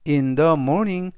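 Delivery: very slow, deliberate example sentence; slow model reading. Shown as a demonstration. Teacher reading the example aloud to students, slow and clear. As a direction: spell each word out for learners.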